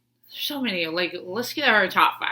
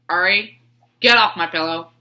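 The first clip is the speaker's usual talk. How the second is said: telling off; 6 dB louder than usual. Retold or imitated. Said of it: "I was like".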